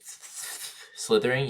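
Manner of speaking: slithering, drawn out very slowly; slithering, slow like a snake; snake impression. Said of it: "That's my snake impression".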